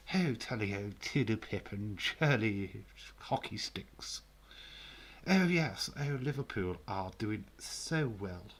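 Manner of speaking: mock upper-class Englishman, tea in hand; a half-hearted posh voice mocking his own fans' picture of him; posh Brit act. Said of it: "Can't keep that game going".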